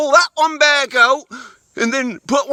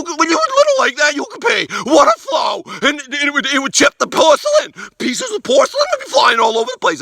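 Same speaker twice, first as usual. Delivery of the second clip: excited exaggeration; 4 semitones higher than usual. Excited boast about boyhood pee.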